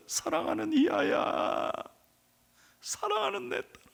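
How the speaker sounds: tender weeping. Retold or imitated. Jesus weeping over his daughter, tender high call. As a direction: call her gently, near tears.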